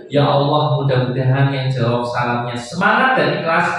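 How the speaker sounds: slow, measured blessing for the crowd; host leads parents' prayer, slow and solemn. Acted. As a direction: pace each blessing for the amen.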